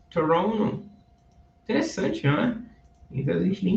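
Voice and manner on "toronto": Toronto said as Torono; silent T. Shown as a demonstration. Teacher models how natives say Toronto. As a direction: drop the second T in Toronto, Torono. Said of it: "Toronto ou Toronto".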